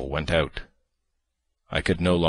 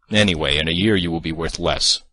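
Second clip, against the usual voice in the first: malignant; 4 dB louder than usual. Acted. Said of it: "I continued malignantly".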